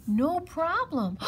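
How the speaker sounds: slow, high snake reply. A narrator's reading. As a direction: draw it out breezily. Snake volunteers casually.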